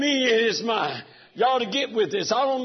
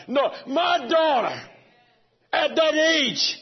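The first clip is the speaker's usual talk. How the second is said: raised, chanting preacher cadence; fervent preaching; 3 semitones higher than usual. Real, not acted. Pastor preaching to the church about God's bride, fervent. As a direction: lift it into a preaching climb.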